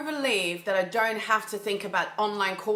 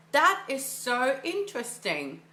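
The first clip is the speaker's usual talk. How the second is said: put-on childlike curiosity; 3 semitones higher than usual. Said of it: "childlike curiosity".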